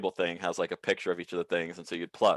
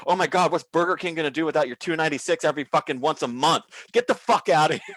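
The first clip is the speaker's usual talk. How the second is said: mock scream; 6 semitones higher, 3 dB louder than usual. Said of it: "I'd just scream at 'em".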